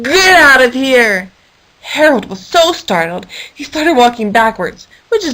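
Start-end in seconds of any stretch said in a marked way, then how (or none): 0.0-1.3 slow, loud goat bellow; angry yell. Acted. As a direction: bellow it at him. Goat yells at Harold.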